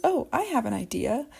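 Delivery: put-on kid's scripted line. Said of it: "one that I hear a lot is".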